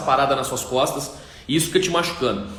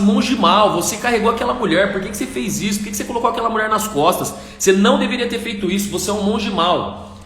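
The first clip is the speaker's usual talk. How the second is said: indignant monk scolding his silent companion, higher; 5 semitones higher than usual. Acted. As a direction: repeat the accusation with rising outrage. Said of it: "aquele monge indignado, ele fala assim".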